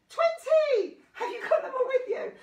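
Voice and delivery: high, loud celebration; gleeful, pitched right up; excited. Real, not acted. Celebrates reaching end of count.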